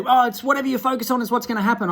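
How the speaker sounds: mock lady. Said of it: "I had a lady the other day say".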